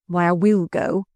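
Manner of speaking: ordinary delivery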